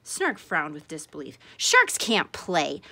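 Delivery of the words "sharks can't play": slow, louder shark voice; a grumpy, disbelieving shark; gruff shark. Acted. Snark answers Ripple's invitation, slow and gruff.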